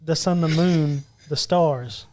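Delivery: slow, hushed love-poem reading; romantic recitation. Acted. Reads a love lyric to his friends as romantic Valentine's poetry, romantic recitation. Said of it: "Why are you saying it like that?".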